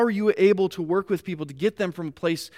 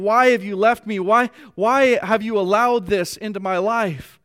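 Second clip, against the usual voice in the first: crying out; 3 semitones higher, 5 dB louder than usual. Retold or imitated. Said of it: "He's crying out".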